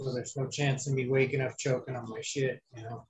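rough, scratchy post-surgery voice; gravelly voice. Real, not acted. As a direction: speak with a raspy, hoarse throat. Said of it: "you sound a little gravelly".

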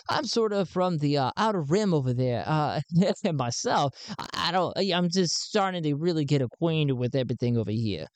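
put-on hesitant stranger in a light accent; Sven's foreign accent. Sven gives his name to Garn with a faint accent. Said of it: "I lost my accent there".

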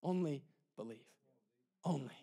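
low, very soft urging; hushed appeal. Real, not acted. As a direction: let each word drop almost to a hush. Preacher hushes the key phrase.

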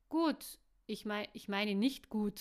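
loud blurt, then stumbling retraction; flustered self-correction. A narrator's reading. Woman reacting wrongly to a death, flustered self-correction. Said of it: "verbesserte sich Caro".

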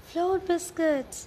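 loud, high, drawn-out exclamation; excited cry. A narrator's reading. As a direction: cry it out slowly in amazement. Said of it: "cried Sarah".

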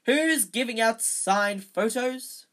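booming jovial. Acted. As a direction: boom it like a vain celebrity. Lockhart booming at crowd.

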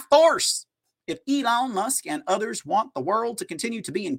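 amateur imitation of a Southern politician; Southern senator accent. Host mockingly reading a senator's tweet aloud in a Southern accent. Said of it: "if you guys like my Southern accent".

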